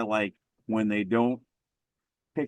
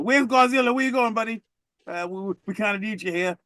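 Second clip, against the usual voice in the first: high, sheepish pleading call; 11 semitones higher, 3 dB louder, faster than usual. Retold or imitated. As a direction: beg the monster to come back. Voicing sheepish humans.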